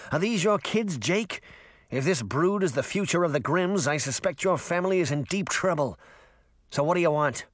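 a touch of disdain in a fish character; lightly voiced grumpy fish. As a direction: grumble mildly as an unimpressed fish.

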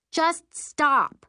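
high, loud command; firm order. A narrator's reading. Girl halting her sister's rant, ordering. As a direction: cut in sharply with an order. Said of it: "I order".

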